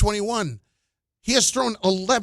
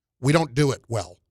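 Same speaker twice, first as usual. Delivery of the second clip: mock deadpan delivery in a much lower pitch; 9 semitones lower than usual. Quoting a man's answer to a reporter, retelling a deadpan reply. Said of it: "he just deadpanned right to the reporter".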